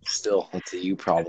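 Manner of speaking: badly faked Southern accent. Friend repeating his comeback, mock Southern accent. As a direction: stubbornly keep up a dubious Southern twang. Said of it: "It sounds like you just got really drunk".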